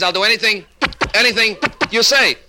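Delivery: high, halting repeat on "anything"; stuttering husband. Acted. Husband agrees to see the psychiatrist, stuttering. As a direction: stammer through an eager promise. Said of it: "a little impediment in his speech".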